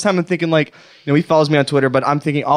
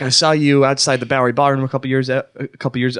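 tripping over "a, a couple years"; nervous stammer, repeating "a"; stuttering. Shown as a demonstration. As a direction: stumble and restart on "a couple years". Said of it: "I said it like this. I stuttered".

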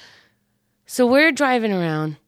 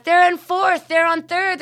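mock frantic yelling; 11 semitones higher, 3 dB louder than usual. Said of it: "she starts yelling at us".

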